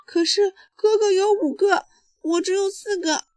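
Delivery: put-on high, loud childish protest; little girl yelling. A narrator's reading. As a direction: complain loudly as a little sister. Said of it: "小熊妹妹嚷道".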